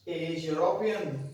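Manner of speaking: "European" starting with a clear "you" sound. Shown as a demonstration. Teacher showing the U sound, "European" begun as "you". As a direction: say "European" slowly, opening on y. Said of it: "यू यहाँ पे बोल रहा है".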